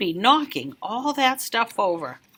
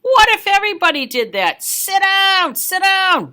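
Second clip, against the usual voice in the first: much higher, louder barked orders; angry bus driver; 9 semitones higher, 5 dB louder than usual. Acted. Bus driver yelling at the standing kid, high and loud. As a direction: order the kid to sit, sharply. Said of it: "glared at me in the rearview mirror and said".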